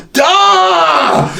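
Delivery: high, mocking shout of duh; playful know-it-all duh. Real, not acted. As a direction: rub it in like it's obvious. Mocking the viewer's ignorance.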